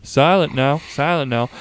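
put-on Southern accent. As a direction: talk like a mock Southerner. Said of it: "gonna do a southern one".

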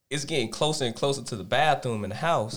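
whispered storytelling as he creeps closer; suspense whisper. Acted. Telling friends about sneaking to the bathroom, whispering. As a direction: breathe it out, building the tension.

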